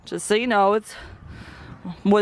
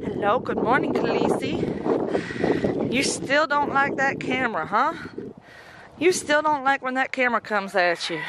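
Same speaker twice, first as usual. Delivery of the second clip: sweet greeting; 3 semitones higher than usual. Real, not acted. Farmer greeting her timid dog, gentle coaxing voice. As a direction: coax the shy dog gently.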